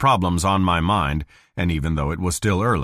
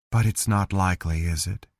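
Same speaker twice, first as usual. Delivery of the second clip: dull voice; 3 dB quieter than usual. Acted. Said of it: "in that same dull voice".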